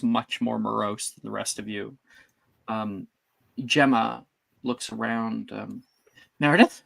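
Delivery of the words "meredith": tentative questioning call, rising sharply; name lifted into a question; searching call. Acted. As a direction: call her name as you look around, unsure. Gemma looks around for Meredith.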